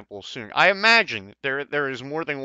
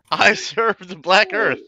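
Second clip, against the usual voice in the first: solemn passphrase; 5 semitones higher, 6 dB louder, slower than usual. Acted. Giving passphrase at the door.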